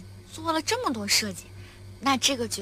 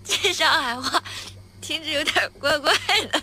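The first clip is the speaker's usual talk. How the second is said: laughing; 4 semitones higher, 5 dB louder than usual. Real, not acted.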